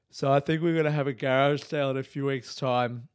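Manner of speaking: hushed, secretive whisper; whispered aside. Real, not acted. Host whispering his garage sale plan to listeners.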